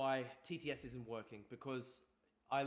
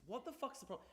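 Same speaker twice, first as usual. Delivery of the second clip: high-pitched, softer exasperated question; 10 semitones higher, 6 dB quieter than usual. Real, not acted. Streamer fed up with broken text-to-speech, exasperated. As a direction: vent in frustration, pitch jumping up. Streamer's donation alert is not working.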